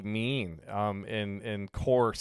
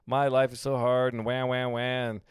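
whiny victim; 2 semitones higher than usual. Retold or imitated. Someone pouring out woes to a listener, hammed-up whine. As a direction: ham up a complaining victim, wah wah. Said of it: "somebody might come to you and they're like".

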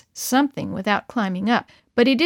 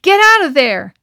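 loud, high urgent yell; 9 semitones higher, 10 dB louder than usual. Acted. Boys yell at Del to flee the bull, loud yell. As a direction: shout to get him out of there. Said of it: "the other boys yelled".

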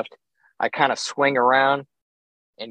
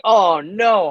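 higher, louder dismayed cry; a raised oh-no of disappointment; 7 semitones higher, 4 dB louder than usual. Retold or imitated. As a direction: groan it as the bad news lands. Dismayed at the low score.

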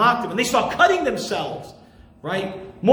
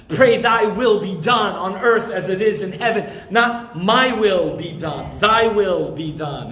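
reverent prayer; 4 semitones lower than usual. Acted.

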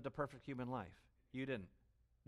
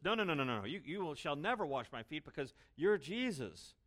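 reverent protest; 3 semitones higher, 3 dB louder than usual. Retold or imitated. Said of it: "Peter speaks in deep reverence".

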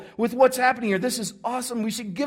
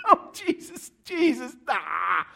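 crowd protest; 2 semitones higher than usual. Acted. Crowd objecting to Jesus's story twist, mock protest. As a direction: protest like a let-down listener. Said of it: "Everybody that was there that day is like".

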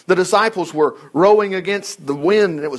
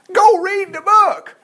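emphatic urging; 13 semitones higher, 4 dB louder, slower than usual. Real, not acted. Preacher urging his congregation.

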